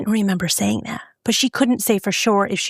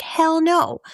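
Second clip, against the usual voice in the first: a higher, indignant hell no; emphatic refusal; 9 semitones higher than usual. Retold or imitated. Mother flatly refusing ex-husband's Disney trip, indignant. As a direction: shut it down flat, no debate.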